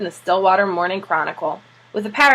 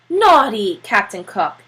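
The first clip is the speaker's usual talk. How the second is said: slow, drawn-out mock scolding; tut-tut at the penguin; gentle scolding; 3 dB louder, slower than usual. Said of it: "said Janey".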